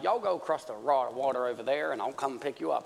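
lightly put-on Southern US accent; Southern redneck American. Jesus sending disciples across the water, lightly Southern American accent. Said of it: "specifically a southern redneck American accent".

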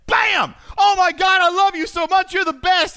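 hammed-up delighted wife; gushing wife. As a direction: imitate an overjoyed wife. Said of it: "He says".

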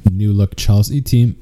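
coughing through a swallow of food; words caught in the throat; choking on a drink. Real, not acted. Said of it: "I'm choking".

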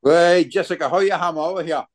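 thick Newcastle Geordie accent. Shown as a demonstration. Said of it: "give Jessica an example of Bro Geordie Pet".

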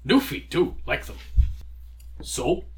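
loud, choppy gargoyle speech; short bursts like an eager gargoyle. Acted. DM voices the gargoyle.

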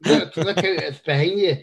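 half-laughing panto shout; mock pantomime call. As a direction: playfully call it out like a panto audience. Jokey pantomime catchphrase after pantomime remark.

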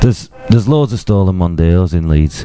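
lightly put-on Yorkshire accent. Shown as a demonstration. Podcaster redoing the tagline for his co-host, Yorkshire accent. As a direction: give the tagline a Yorkshire sound. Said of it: "That was proper".

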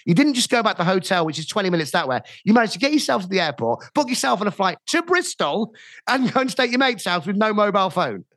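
incredulous. Retold or imitated. Phoning friend who fled home, incredulous and high. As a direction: spell out his madness in disbelief. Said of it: "So I went".

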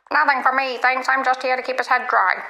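lightly voiced duck ordering at a bar; talking duck. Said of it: "The duck says".

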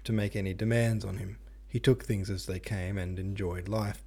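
reading a novel aloud; steady audiobook narration; story narration. Acted. Reads the chapter aloud.

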